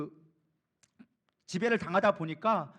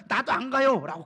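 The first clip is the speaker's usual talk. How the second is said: acted loud, raised-pitch refusal; insistent declaration; 6 dB louder than usual. Preacher voices Moses refusing to go without God, loud insistent declaration. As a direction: dig in and declare it forcefully. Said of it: "고백하고 있는 거예요".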